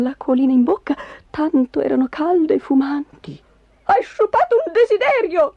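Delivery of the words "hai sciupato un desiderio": high-pitched furious shriek; piercing, scolding wife; shrieking angrily. A narrator's reading. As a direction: screech it in outrage at your husband. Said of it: "strillò Magda".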